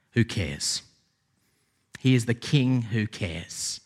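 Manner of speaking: slow, soft restatement of He is the King who cares; deliberate repeat; slow emphatic. Shown as a demonstration. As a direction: let the point land. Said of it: "repeated key point".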